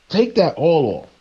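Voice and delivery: insistent divine command. Retold or imitated. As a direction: bark the order up high. God commanding the prophet.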